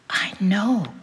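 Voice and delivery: hushed, knowing whisper. A narrator's reading. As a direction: whisper it gently. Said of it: "Jane whispered".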